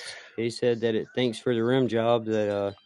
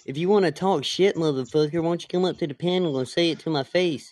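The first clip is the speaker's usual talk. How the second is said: imitating George; 6 semitones higher than usual. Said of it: "I could always pull the George".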